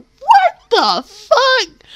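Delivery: slow stunned disbelief. Real, not acted. Shocked reaction.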